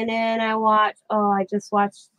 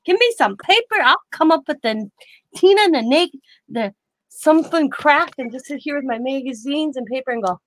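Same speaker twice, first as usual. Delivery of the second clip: excited quote; 5 semitones higher than usual. Retold or imitated. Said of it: "I'm like".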